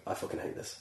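half-whispered grumble under his breath; muttered to himself. Retold or imitated. Stonemason whispering his hatred of the job. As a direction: breathe it out like a private complaint. Retelling hating the summer job.

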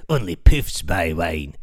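low, slow sneering heckler voice; slow low jeer at the wine buyer; mocking heckler. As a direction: drag it out low like a sneering thug. Heckler repeats taunt.

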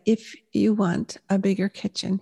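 imitating a slow talker, words spaced out; measured, deliberate delivery as a husband; slow-spoken husband. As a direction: quote him slowly, pausing between phrases. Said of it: "he's kind of slow to speak".

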